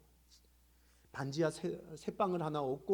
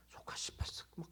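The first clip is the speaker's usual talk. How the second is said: muted retold cursing; 9 dB quieter than usual. Caller cursing at the pastor, retold in a mutter. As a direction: curse muttered under the breath, almost whispered. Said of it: "그러면서 욕을 하는 거예요".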